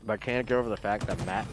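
talking through a mouthful of food; words muffled round a bite; mouth full. Real, not acted. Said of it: "sorry, my mouth is full right now".

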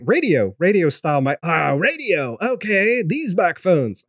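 lightly voiced cartoon dude; a hint of the laid-back bus driver; Simpsons bus driver. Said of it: "talking like the bus driver from The Simpsons".

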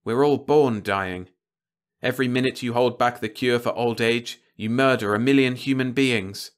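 a reporter's impassioned, driving appeal; passionate plea. A narrator's reading. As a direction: hammer the moral stakes home. Radek, pleading passionately.

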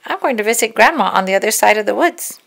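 put-on fast, bright girl's voice; girl telling the wolf her plans; eager little girl. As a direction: rattle it off like a happy child.

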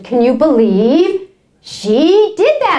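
slow, mildly mock outrage; livid neighbor. Upset neighbor retelling the Costco incident, mildly livid. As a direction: stretch it out in imitated disbelief. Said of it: "she was livid. She was so upset".

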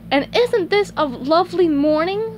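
high, lilting cartoon voice; SpongeBob cheery. Greeting his grumpy co-worker, high cheery lilt. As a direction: chirp it, climbing to the end.

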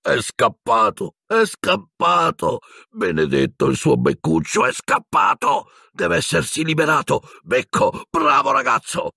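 high, broken wail of relief; sobbing with joy. A narrator's reading. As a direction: stretch the words out tearfully, pitch climbing very high. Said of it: "sentirono le parole di Hagrid tra i singhiozzi". (tra i singhiozzi, acuto e commosso)

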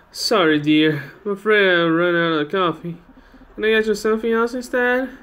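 put-on fussing old lady apologizing to her guest; apologetic old lady. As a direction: play an apologetic old hostess. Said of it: "it's an old lady".

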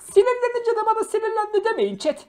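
heated plea. Real, not acted.

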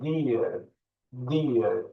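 "Deer" with a drawn-out ee; lengthened vowel. Shown as a demonstration. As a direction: stretch the vowel in "Deer" like "deee-er". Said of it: "Gene uzatıyoruz bakın".

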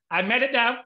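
triumphant. Retold or imitated. Author retells winning a second award, elated. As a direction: claim victory with glee.

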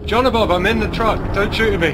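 calling out. Real, not acted. Calling to teammate in game.

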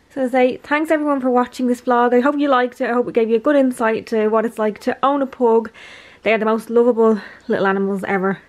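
talking while winded; a little breathless, catch your breath. Real, not acted. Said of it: "I'm out of breath".

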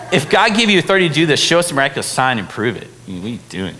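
mock the priests' snotty challenge. Preacher mimicking snotty priests challenging Jesus, mocking sneer. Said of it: "super snotty".

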